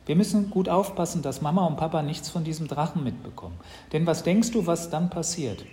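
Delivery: put-on conspiratorial, serious boy; earnest warning. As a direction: warn your sister to keep the secret. Brother cautions sister about parents.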